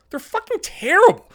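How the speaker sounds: high, loud repeat; angry shout. Real, not acted. Blasting Buffalo sports writers, high loud shout. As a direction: push the repeat up into a yell.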